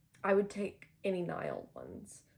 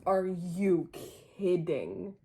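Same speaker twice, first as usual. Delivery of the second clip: louder, thrilled are you kidding; excited disbelief; 4 dB louder, much slower than usual. Real, not acted. Fan thrilled by the photo book, excited disbelief. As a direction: burst out in happy disbelief.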